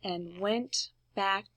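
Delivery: slow whisper; soft bedtime whisper. A narrator's reading. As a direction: hush it like he's asleep. Froggy falls asleep.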